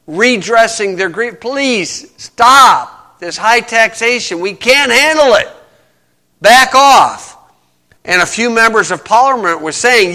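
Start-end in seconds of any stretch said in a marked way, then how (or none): 1.4-7.4 mock plea, slow start building higher; retold begging, rising to an emphatic demand; imitated begging. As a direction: plead forcefully on the colonists' behalf. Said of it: "they had been begging him".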